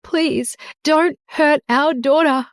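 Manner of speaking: high, slow begging mother; desperate plea. A narrator's reading. Mother begging husband to spare daughter, high and desperate. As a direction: beg him to spare the child. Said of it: "Cindy cried".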